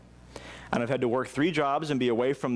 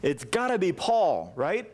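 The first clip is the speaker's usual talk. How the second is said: pleading prayer; 4 semitones higher than usual. Retold or imitated. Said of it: "he's crying out to God".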